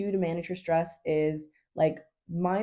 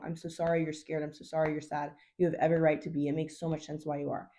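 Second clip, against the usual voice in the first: put-on softer, gentle comforting of a scared child; soothing a little girl; 2 semitones lower, 3 dB quieter than usual. Shown as a demonstration. Coach comforting her nervous system like a little girl, soft and soothing. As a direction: coo it like you're calming a frightened little girl. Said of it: "talk to it like it's a little girl".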